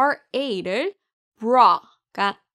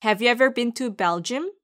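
slow example sentence; slower than usual. Shown as a demonstration. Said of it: "함께 말해볼까요".

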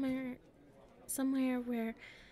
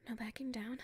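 whisper; 4 dB quieter than usual. Acted.

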